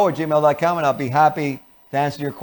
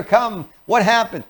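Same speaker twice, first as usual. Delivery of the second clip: high-pitched, pushy concern; too high and eager; 6 semitones higher than usual. Shown as a demonstration. Parent rushing to a crying child, too upbeat. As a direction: jump in brightly with the question. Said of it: "That's too high for them. It's too fast".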